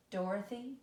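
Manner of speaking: Dorothy with weight on "Dor", rising at the end; dactyl stress. Shown as a demonstration. Teacher demonstrating a dactyl, Dorothy stressed on "Dor". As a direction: stress the first syllable of Dorothy. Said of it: "has the same sound".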